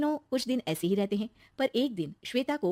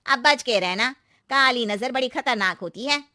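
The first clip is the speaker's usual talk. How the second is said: higher, emphatic aunty caution; ominous warning; 3 semitones higher, 5 dB louder than usual. Acted. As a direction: warn her to beware. Aunty warns of evil eye. (डराती हुई चेतावनी)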